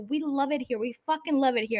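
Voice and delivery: dry sarcastic praise; deadpan sarcasm. Real, not acted. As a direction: say it like you mean the opposite. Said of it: "that was fucking sarcasm".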